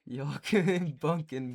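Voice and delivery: slow, loud drawl broken by laughter; laughing Southern drawl. Retold or imitated. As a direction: laugh through a hick accent. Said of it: "Now imagine that in the Scottish accent".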